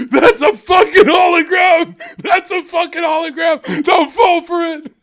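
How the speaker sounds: high, screamed alarm; hammed-up conspiracy theorist yelling from the flames; mock frantic warning. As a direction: shout it desperately, way up high. Mimics conspiracy side burning in hell.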